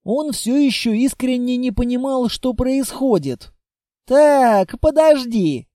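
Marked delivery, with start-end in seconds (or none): 4.0-5.7 louder, strained through held-back laughter; forcing words out past the giggles; choking on laughter; barely squeezed out. Acted. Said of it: "еле выдавил из себя Литвин".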